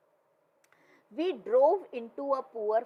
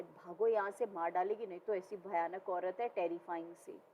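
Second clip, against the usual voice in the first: softer and fading, urgent fear; hushed urgent; 3 semitones lower, 6 dB quieter than usual. Acted. Bill urging the narrator to flee, a soft scared urgency. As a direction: urge escape under breath. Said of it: "Bill whispered".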